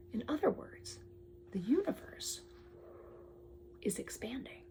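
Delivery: read-aloud fading into a whisper; storybook reveal. Acted. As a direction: let the wonder hush down to nothing.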